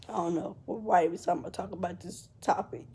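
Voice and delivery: whispering with a breaking voice; words catch in the throat, barely voiced; real tears pulling the voice down to a whisper; choked whisper. Real, not acted. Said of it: "I start to get emotional".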